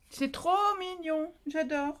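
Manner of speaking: c'est trop mignon étiré, voix montée; attendrie, lente et aiguë. Real, not acted. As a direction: fondre devant la carte. (attendrie, très lentement)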